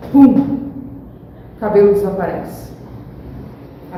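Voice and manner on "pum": a sudden loud pop spoken as pum; louder spoken pum sound; pum sound effect. Shown as a demonstration. Sound effect in sermon example.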